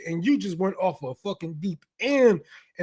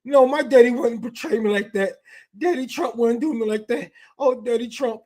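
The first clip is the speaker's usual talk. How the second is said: mock sobbing fan; 4 semitones higher, 4 dB louder than usual. Mocking a heartbroken fan with loud, high fake wailing. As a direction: ham up a grown man crying over his hero.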